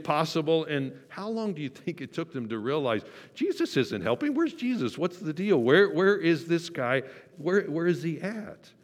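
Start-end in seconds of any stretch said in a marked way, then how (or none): 3.3-8.7 high, frantic calling for Jesus; frantic, high-pitched searching for the missing leader; panicked disciples. Retold or imitated. Disciples panicking in sinking boat.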